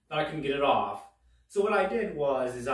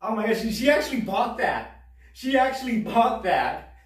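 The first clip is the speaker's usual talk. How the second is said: high, excited astonishment; amazed disbelief; 7 semitones higher, 5 dB louder than usual. Retold or imitated. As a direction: marvel that the trick actually worked. Child amazed the lie worked.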